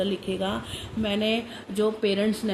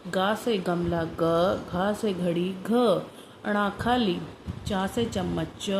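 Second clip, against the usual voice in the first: slow teaching sing-song through the letters; slow picture recitation; slower than usual. Shown as a demonstration. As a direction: model each letter and word slowly. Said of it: "picture तो भी करानी है".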